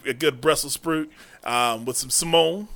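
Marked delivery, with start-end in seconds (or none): 2.1-2.7 SIMONE for salmon, stressed on the second syllable; affected "suh-MOAN" for SIMONE. Pretend. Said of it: "It sounds like you're saying Simone".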